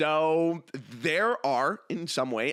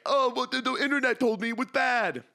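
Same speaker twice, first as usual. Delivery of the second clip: high, mocking whine of a doubter; mock someone parroting the internet; sneering high-pitched put-on voice; whiny internet skeptic; 9 semitones higher than usual. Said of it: "you're like".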